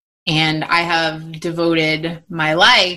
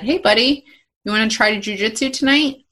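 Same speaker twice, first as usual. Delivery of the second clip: higher-pitched, imitated invitation to a small child; friendly coach greeting; 5 semitones higher than usual. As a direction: lightly voice a coach coaxing a kid. Retold coach greeting scared child.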